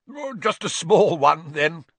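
put-on high, loud, pleased old aunt offering a little; jolly aunt chuckling over a small slice; hearty aunt with a chuckle in her voice; chuckling Aunt Marge. A narrator's reading. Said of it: "she chuckled".

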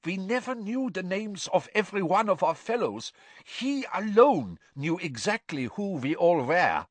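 frightened prisoner hurrying his excuses; hurried and nervous. A narrator's reading. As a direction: hurry to justify yourself. Karkaroff voiced in narration.

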